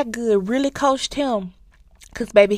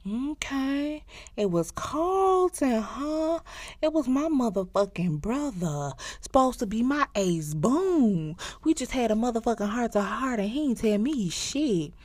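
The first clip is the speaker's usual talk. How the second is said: bitter sarcasm; 3 semitones higher, 5 dB quieter than usual. Retold or imitated. The brother learning it was his own brother, quiet bitter sarcasm. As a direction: let the betrayal sink in mockingly. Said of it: "And he was like".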